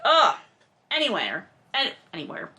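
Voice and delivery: ordinary delivery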